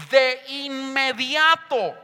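"de inmediato" drawn out slowly; emphatic stress. Shown as a demonstration. Preacher quoting the Bible on the rescue, "de inmediato" slow and emphatic. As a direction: stretch out "de inmediato" for weight.

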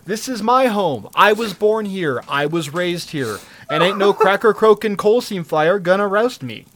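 hammed-up stubborn local; defiant townsperson. Residents refusing to leave their home, mock defiant. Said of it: "they're like".

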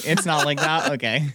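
normal talking voice

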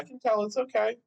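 imitating the shopper. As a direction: play the patient stranger reassuring him. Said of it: "She's like".

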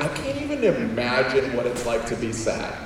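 lightly acted happy obliviousness; mock happy. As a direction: play carefree, can't-imagine-it happiness. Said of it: "then you're happy and you're like".

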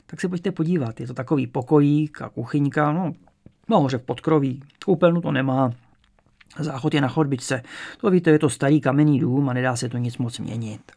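a hint of an old landlady apologising for the flat; elderly landlady. Old landlady showing the attic room, lightly chatty.

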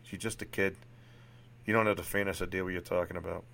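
lightly attempted Boston accent; amateur Boston accent, even-pitched; Sean, Boston accent. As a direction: play a frank psychiatrist with a rough Boston accent. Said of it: "Forgive my horrible Boston accent here".

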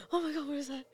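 high, startled little voice; startled child. Retold or imitated. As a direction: play the surprised toddler. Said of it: "he was like".

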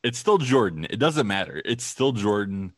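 put-on loud, insistent old-timer grumble; boomer impression. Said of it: "I'm gonna do my best boomer impression".

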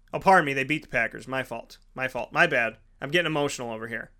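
quiet, embarrassed backtrack; sheepish self-correction. Real, not acted. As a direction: drop right down to admit the slip. Sheepishly corrects his own mistake mid-rant.

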